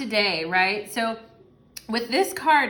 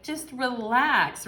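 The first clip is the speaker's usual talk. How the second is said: mock soothing; 3 semitones higher, much slower than usual. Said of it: "your person's like".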